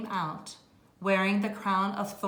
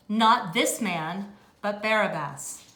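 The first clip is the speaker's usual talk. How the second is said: crowd shouting; 4 dB louder than usual. Acted. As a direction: call it back as the crowd. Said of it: "They shouted in reply".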